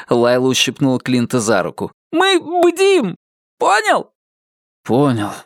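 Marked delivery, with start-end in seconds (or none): 2.1-4.1 high, giddy teasing question; giddy exclamation. Acted. Lila voiced giddy.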